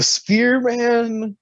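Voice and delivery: drawn-out mock African accent on spear; imitating Apollo Crews, high and slow. Mocking the wrestler's new accent, drawn-out mock accent. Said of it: "The accent".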